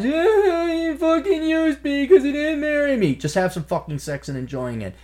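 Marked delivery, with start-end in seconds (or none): 0.1-3.2 high, whiny bitter complaint; mock a woman's bitter regret. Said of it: "don't regret".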